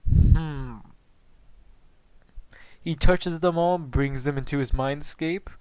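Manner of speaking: ordinary delivery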